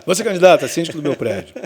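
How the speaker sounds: fast, laughing through a quoted jab; laughing mock quote. Host jokes about his building election, laughing.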